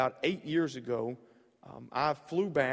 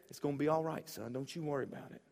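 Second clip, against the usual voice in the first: put-on reassuring old lady; 6 dB quieter, faster than usual. Old lady calming a scared young man, softly. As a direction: soothe him like an old lady. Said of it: "she says".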